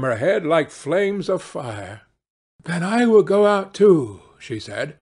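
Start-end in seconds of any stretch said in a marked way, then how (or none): 2.6-4.2 louder, high, urgent resolve; desperate wife. A narrator's reading. Wife springs up to follow them, desperate. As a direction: push it out in desperation.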